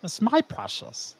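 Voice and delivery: soft, slow creature croon; hushed, drawn-out possessive murmur; creepy creature voice. Pretend. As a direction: gloat softly over a treasure like a creepy creature. Creature catchphrase after creepy remark.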